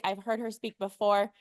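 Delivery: usual speaking voice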